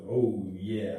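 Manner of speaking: mock husky low moan; deep sexy voice. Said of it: "I don't know why her voice is deep".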